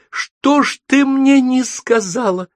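high, slow reproachful cry. Acted. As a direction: cry out the question, hurt and glad. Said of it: "крича".

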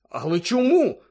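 loud, high cry of protest; exclaiming. A narrator's reading. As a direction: burst out demanding a reason. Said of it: "вигукнув Гаррі".

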